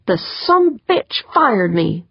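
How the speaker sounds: mildly furious, slow and emphatic; angry snap. Acted. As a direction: spit out the grievance word by word. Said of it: "Holly snapped".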